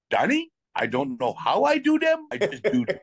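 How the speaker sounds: terrible mock French accent; high, hammed-up French-Canadian accent; Gilbert Perreault. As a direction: imitate a teammate in a comically bad French accent. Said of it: "It's a terrible accent".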